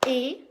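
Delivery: "Éventail" in loud separated beats, é... ven; syllable by syllable. Shown as a demonstration. Teacher starting the count over, "Éventail" chopped syllable by syllable. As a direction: punch each syllable of "Éventail" apart. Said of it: "Allez, on recommence".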